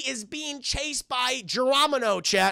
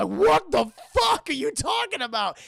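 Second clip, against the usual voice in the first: Scooby-Doo; 4 semitones higher, 3 dB louder than usual. Retold or imitated. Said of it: "And Scooby's like".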